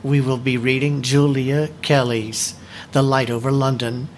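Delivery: measured, deliberate presentation reading; steady formal delivery of a prepared script. Acted. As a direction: read it like a prepared talk to a book club. Reads prepared book presentation.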